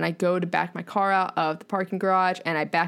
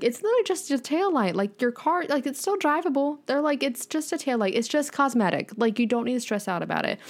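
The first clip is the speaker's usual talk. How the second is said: parents reassuring; 4 semitones higher than usual. Retold or imitated.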